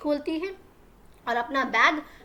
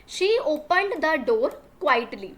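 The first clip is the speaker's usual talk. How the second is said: very slow, word by word for learners; slow classroom dictation reading; slow read-aloud; 4 dB louder, much slower than usual. Shown as a demonstration. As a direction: spell the sentence out slowly for the class. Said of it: "teacher reads the English line to pupils".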